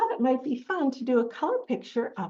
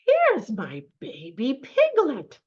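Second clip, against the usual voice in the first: pig character; 4 semitones higher, 5 dB louder, slower than usual. Acted. Pig finds her piglet.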